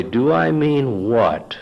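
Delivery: slow, sarcastic comeback; mock innocence. Husband baiting his wife, mock innocent. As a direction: play dumb, stretching the words. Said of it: "reacted to the sarcasm".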